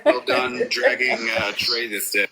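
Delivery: glitchy call audio with echo. Real, not acted. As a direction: voice repeating through a bad connection. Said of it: "You gotta echo".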